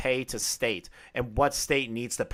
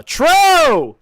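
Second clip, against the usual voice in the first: very high, loud shout of true; mock-emphatic agreement; 11 dB louder than usual. Streamer loudly, sarcastically agrees with a critical comment. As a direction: bark it like a game-show buzzer.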